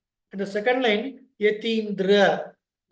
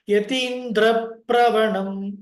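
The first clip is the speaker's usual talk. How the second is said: "Pravanam" with the "Pra" cluster pressed firmly, slow; stress on the Dvikam; 5 dB louder, slower than usual. Shown as a demonstration. Teacher showing how to stress the double consonant. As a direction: give "Yatindra Pravanam" weight on both consonant clusters. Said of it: "little stress is required since it is a Dvikam".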